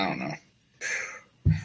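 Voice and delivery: mock-serious deep musing. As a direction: drop into a low, slow ponder. Mulling prediction.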